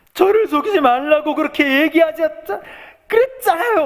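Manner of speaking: very high, loud crying, wailing plea.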